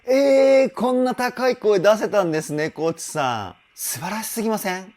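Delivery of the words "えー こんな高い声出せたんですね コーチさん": real high, loud burst of astonishment; amazed. Real, not acted. Voice trainer stunned by the singer's high note, amazed. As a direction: blurt it out, stunned and half laughing.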